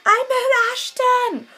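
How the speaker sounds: high, slow, loud sobbing wail; crying wail. Retold or imitated. Telling her friend on the phone, high sobbing wail. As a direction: squeal it out through happy tears. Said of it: "I couldn't even talk English".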